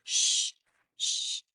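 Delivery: "Sh" as a long soft hush; sh sound demo. Shown as a demonstration. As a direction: hold a quiet steady "sh". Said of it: "Try it".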